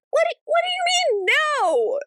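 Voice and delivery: exaggerated squeak of offended confusion; squeaky mock outrage. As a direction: pitch it way up in hammed-up disbelief. Same quote, repeated higher.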